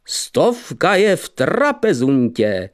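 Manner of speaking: slow triumphant proclamation; triumphant call, drawn out; mighty shout. Acted. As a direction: announce it to the whole room. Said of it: "zvolal mocným hlasem".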